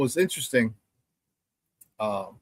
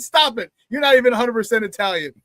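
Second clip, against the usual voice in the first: high-pitched, insistent retold retort; taunting comeback; 6 semitones higher than usual. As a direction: shut down their boast, re-enacting it in a raised voice.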